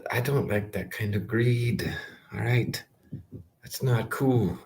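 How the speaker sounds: whisper. Real, not acted. Whispered complaint about bank greed.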